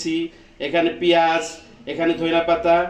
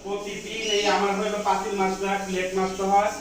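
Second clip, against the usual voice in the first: half-muttered mock grumbling about chores; grumbling complaint; 3 semitones higher than usual. Husband grumbling about washing pots behind his wife's back. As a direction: grouse under the breath so the wife won't hear. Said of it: "তুমি এত জোরে জোরে কথা বলতেছো কেন?".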